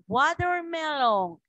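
teacher's clear demo of English "Watermelon"; English pronunciation. Shown as a demonstration. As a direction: model "Watermelon" as WA-der-me-lon, drawn out. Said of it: "Estamos aprendiendo a pronunciar".

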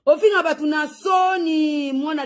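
slow, high shouted insult. Acted. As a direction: hurl it out slowly, shouting it. Repeated insult, second take shouted. (koganga makasi malembe)

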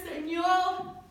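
high-pitched retold cry to God. Woman fallen to the floor cries to God, tearful call. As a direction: call out as if weeping. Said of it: "Yo lloraba y lloraba".

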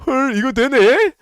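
loud high annoyed disbelief; slow, fed-up outburst; exasperated. Real, not acted. Exasperated by spam. (짜증 섞인 외침)

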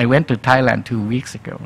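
"I went to Thailand two weeks ago" in a rising and falling English tune; up-and-down intonation. Shown as a demonstration. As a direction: let the pitch go up and down, with "to" reduced. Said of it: "ฝรั่งมันจะพูดขึ้นๆลงๆ".

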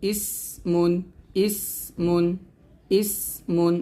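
"ইস মুন" split, with a held s; demonstrated syllables. Shown as a demonstration. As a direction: hold the s of "ইস", then say "মুন". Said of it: "এরকম". (ভেঙে ভেঙে "ইস মুন" উচ্চারণ)

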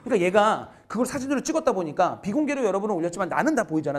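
ordinary delivery

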